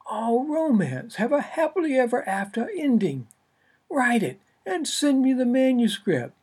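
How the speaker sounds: high, loud pushy agent on the phone. Acted. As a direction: push hard like an impatient agent. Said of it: "only a few decibels softer".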